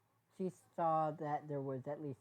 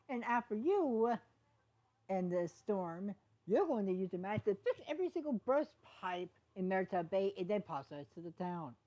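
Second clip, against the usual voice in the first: stern order; 4 semitones higher, 4 dB louder than usual. Acted. Sheriff ordering Izzy to fix every pipe, stern. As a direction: lay down the punishment.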